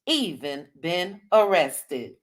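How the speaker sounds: a hint of Marceau drawing out his denial; Marceau's voice. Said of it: "in Marceau's voice".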